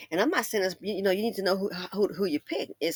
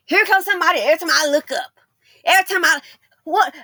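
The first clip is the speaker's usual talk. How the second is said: mock exasperated; 4 semitones higher, 8 dB louder, faster than usual. Acted annoyed homeowner.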